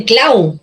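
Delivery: CLAU with force on the A, falling off into U; stress on A. Shown as a demonstration. Teacher confirms the right option for students, stress on A. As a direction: put the voice's weight on A in CLAU. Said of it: "La fuerza de voz está en la A".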